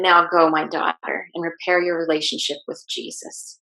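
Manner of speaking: mildly softened, kindly send-off; a touch of tender instruction; gentle voice. Retold or imitated. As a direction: send them off gently, softening toward the end. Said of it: "in the most gentle voice".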